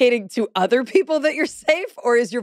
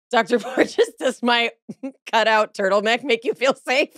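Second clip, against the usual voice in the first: silly question; 2 semitones higher than usual. Retold or imitated. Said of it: "I wanted to ask him so many silly questions".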